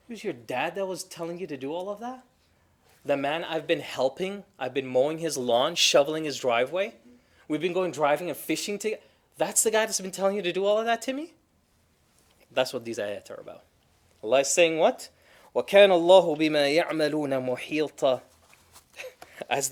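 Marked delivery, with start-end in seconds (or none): 0.1-11.3 rising, faster disbelief, ending higher; shocked discovery. Acted. Spouse discovers betrayal, acted. 15.5-18.2 rapid, louder chanted verse; Quran recitation. Acted.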